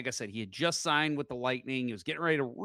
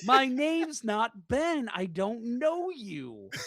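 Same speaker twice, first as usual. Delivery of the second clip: firm denial; 8 semitones higher, much slower than usual. Retold or imitated. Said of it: "And he's like".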